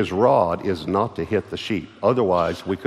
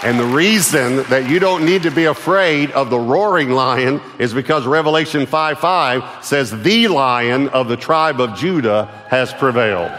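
loud and higher, building to the verse; full-force preaching; 5 semitones higher, 6 dB louder than usual. Acted. Pastor proclaims victory over the lion, loud preaching.

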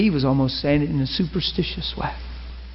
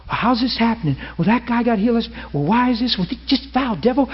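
mock panic; 6 semitones higher than usual. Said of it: "we get heady, and we freak out".

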